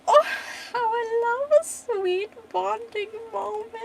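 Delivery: high, gleeful villain voice, acted; mocking villain. Villain Biero mocking the grieving lover, high put-on gloating.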